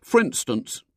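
put-on a boy warming to his grievance; aggrieved schoolboy. A narrator's reading. William complains to the lady about family, aggrieved.

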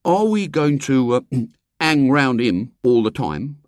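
discontented. A narrator's reading. William objecting to following the man, discontented. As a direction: grumble impatiently with hesitations.

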